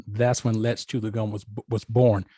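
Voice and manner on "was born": normal talking voice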